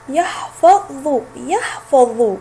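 يحفظ said very slowly twice; teacher modelling يحفظ slowly; slow model word. Shown as a demonstration. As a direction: stretch يحفظ out for learners. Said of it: "جاء حرف الضاد في آخر الكلمة".

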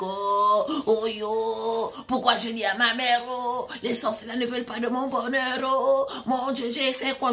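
drawn-out mock lament; panicked friend. Friend laments her lost happiness, imitated panicked wail. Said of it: "Ma copine en panique".

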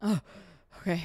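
breath held mid-jump; words squeezed out holding breath. Real, not acted. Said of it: "holding my breath as I do these jumps".

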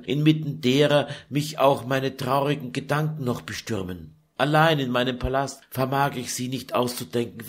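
put-on a tired young woman pouring out her grief; Lucretia lamenting. Daughter pouring out her sorrow to her mother, weary.

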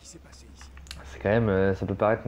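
hoarse, voice giving out; strained, fading voice; losing voice. Real, not acted. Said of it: "Je suis en train de perdre ma voix totalement".

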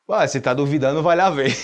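cheeky retort breaking into laughter; Chaves laughing. Retold or imitated. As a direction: talk back while cracking up. (Chaves respondendo rindo)

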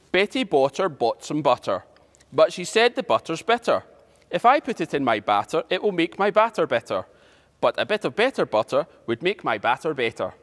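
careful, measured phrases with pauses between; slow tongue twister. Shown as a demonstration. Teacher introduces today's tongue twister to pupils, slowly. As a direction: take it line by line, unhurried. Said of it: "go through it slowly".

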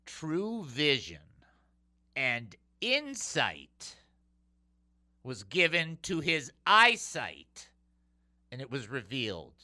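slow, spaced words for emphasis; slow deliberate restatement; slow repeat. Shown as a demonstration. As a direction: say it again, slowly, so it sinks in. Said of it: "Let me say that again".

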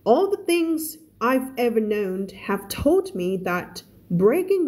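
measured, careful storybook narration; story read-aloud. A narrator's reading. Teacher reading The Christmas Pig to Thai learners, careful story narration.

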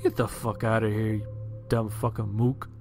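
scoffing Marine. Acted. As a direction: scoff at him in disbelief.

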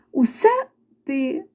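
slow, faint mouse squeak; barely audible squeak. A narrator's reading. Mice admitting the rooster did everything, small slow squeak. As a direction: draw it out like sheepish little mice. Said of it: "ледве чутно пропищали круть і верть".

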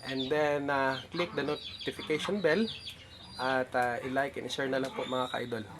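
speaking through missing front teeth. Real, not acted. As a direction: talk with a gap where front teeth were. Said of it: "Bungal ako".

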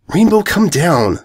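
high, slow anxious call upward; yelp. A narrator's reading. Purple mare calling Rainbow down from the storm, anxious. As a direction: call her down, worried. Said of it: "the purple yelped".

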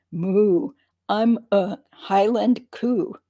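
light mock Scottish accent, slow; a playful Scottish lilt, drawn out. Imitating Josh's Scottish accent as a highland cow. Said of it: "Scottish accent".

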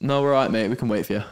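light Irish accent, barely put on; a lightly imitated Irish instructor. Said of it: "in his Irish accent".

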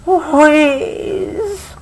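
long, drawn-out feeble wheeze; wheezed word. A narrator's reading. Reader voices the sick tiger's roar, drawn-out wheeze. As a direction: stretch the word out like a failed roar. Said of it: "no more than a wheeze".

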